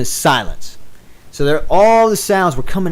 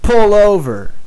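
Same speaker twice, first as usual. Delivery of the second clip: a touch higher, imitating a drunk friend's command; drunk friend's order; 7 semitones higher, 3 dB louder than usual. Drunk friend in the car telling the driver, mock insistent. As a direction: toss off the drunk buddy's demand. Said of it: "he hits me in the arm and he says".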